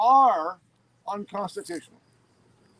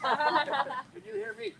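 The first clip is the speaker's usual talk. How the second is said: higher, slow, projected to the room; booming voice; 7 semitones higher, slower than usual. Real, not acted. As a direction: boom it out to the back row. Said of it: "Al's got a big booming voice".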